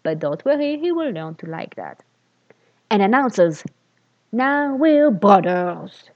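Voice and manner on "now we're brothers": slow, solemn announcement; dramatic TV declaration. Acted. Boy proclaims to his new friend, slow and solemn. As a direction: declare it like a TV teen. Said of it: "the way his teen characters do on T V".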